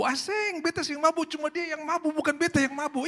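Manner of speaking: very high squeaky protest; protesting wife. Retold or imitated. Wife denying to the pastor that she is drunk, in a very high voice. Wife's protest in Ambon dialect.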